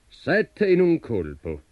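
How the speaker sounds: slow, high-pitched giant spelling out words; giant reading aloud. A narrator's reading. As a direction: read it out slowly, as a sceptical giant. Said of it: "lesse il gigante".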